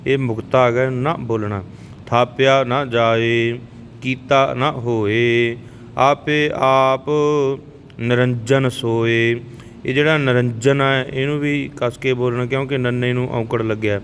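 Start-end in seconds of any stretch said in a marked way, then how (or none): 2.1-9.4 slow, even devotional recitation of gurbani; scripture recitation. Shown as a demonstration. Teacher reciting Japji Sahib for the learners, calm and even. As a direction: recite each line steadily, like a prayer.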